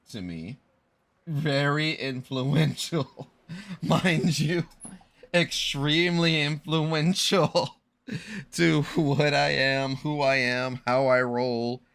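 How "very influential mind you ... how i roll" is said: excited. Real, not acted. Gushing about a childhood hero.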